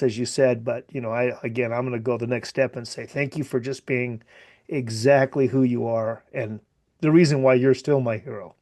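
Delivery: holding back tears while speaking; choked up voice. Real, not acted. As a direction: voice catching with emotion. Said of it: "it's also affecting your voice".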